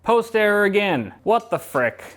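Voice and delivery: frustrated outburst. Real, not acted. PC fails with post error.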